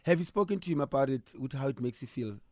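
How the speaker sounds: normal talking voice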